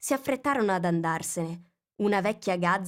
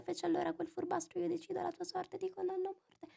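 poem fading away; 9 semitones higher than usual. A narrator's reading. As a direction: let the tale shrink like the tail.

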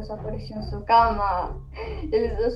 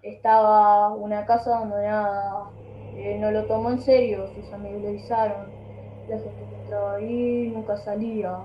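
mumbling put-on story voice; words slurred together; marbles in mouth. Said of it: "No, pero habla bien, ... Modulá mejor las palabras".

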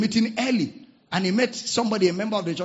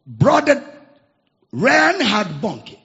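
slow grand announcement; 3 semitones higher, 8 dB louder, slower than usual. Real, not acted.

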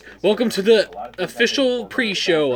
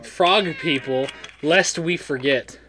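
slow grand greeting; 5 semitones lower, slower than usual. Acted. Slow mock-grand show greeting.

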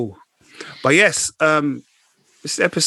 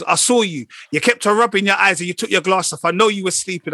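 lightly voiced mum, higher pitch; a hint of mum telling her son off, pitched up; imitated mum; 5 semitones higher than usual. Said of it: "She goes".

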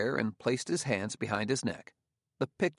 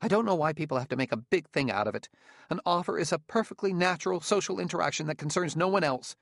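shaky voice; 7 semitones higher, faster than usual. A narrator's reading. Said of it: "He said in a shaky voice".

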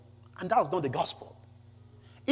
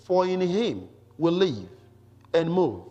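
emphatic, slightly raised public reading; scripture reading. Acted. Preacher reads Paul's Athens speech to the congregation, emphatic scripture reading. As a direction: read the passage out firmly to a congregation.

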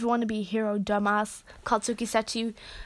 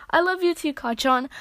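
higher, brighter, fond reply; calling back lovingly; 4 semitones higher than usual. Acted. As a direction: call it back with joy.

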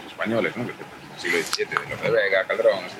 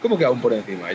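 incredulous. Retold or imitated. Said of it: "Y ellos".

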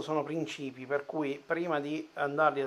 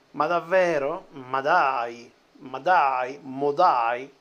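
emphatic italian speech; 5 dB louder, much slower than usual. Pretend. Mock disbelief at the manual.

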